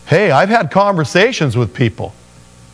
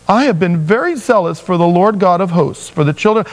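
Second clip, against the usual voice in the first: higher, self-pitying whine; whiny big baby; 4 semitones higher than usual. Retold or imitated. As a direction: sulk like a hurt child. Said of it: "I have to say it like that because I know he's being a big fat baby".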